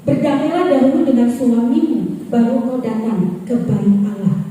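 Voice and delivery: loud, firm divine command; a loud rebuke from the Holy Spirit. Retold or imitated. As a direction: proclaim it like God speaking from above. Holy Spirit's words repeated, quoted.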